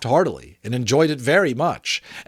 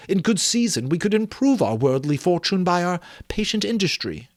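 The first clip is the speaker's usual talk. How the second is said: put-on higher, earnest young woman's voice; Belle, earnest young woman; 7 semitones higher than usual. Belle confronting Scrooge about his love of gain, earnest.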